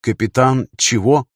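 slow, bewildered query; a touch of confusion; puzzled question. Acted. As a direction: ask it in mild bafflement. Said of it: "недоуменно спросил Артур".

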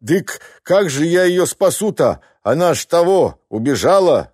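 lightly voiced peasant muttering excuses; mumbling husband. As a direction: mumble excuses like a henpecked man. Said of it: "забубнил мужик".

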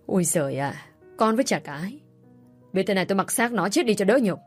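exasperated rage. Acted. Father cursing his disgraced daughter, exasperated and angry. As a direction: throw up your hands in bitter fury.

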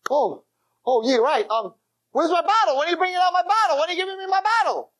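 put-on high, fast slurring drunk; drunk demanding. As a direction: whine for the bottle like a drunk who just woke up. Drunk man demanding his bottle.

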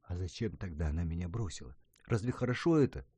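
usual speaking voice

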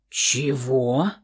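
low, soft growled "Чего?"; a low menacing growl on "Чего?". A narrator's reading. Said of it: "зарычал Лекс". (низко, с рычанием)

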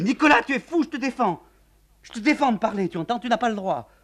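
a hint of a frantic woman hushing him; urgent forbidding.

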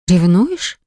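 light rising question; surprised question. Acted. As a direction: ask it in disbelief. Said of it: "выдохнула удивлённо". (удивлённый вопрос)

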